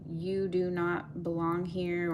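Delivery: slow, measured imitation of a calm warning; calm inner voice. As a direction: say it slowly, gently matter-of-fact. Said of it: "If it's a calm voice".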